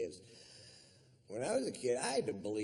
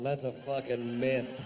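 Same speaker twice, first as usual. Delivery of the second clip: ordinary talk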